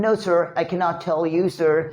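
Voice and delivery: slow, stiff put-on candidate English; nervous candidate voice. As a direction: play a flustered job seeker, slowly. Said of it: "एक बंदे बन के दिखाते हैं". (घबराया उम्मीदवार, धीमी अंग्रेज़ी)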